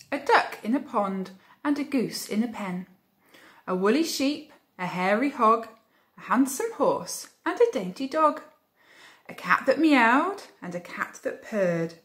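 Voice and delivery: lively storybook reading; reading to children. A narrator's reading. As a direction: read it like a bedtime story. Reading picture book aloud.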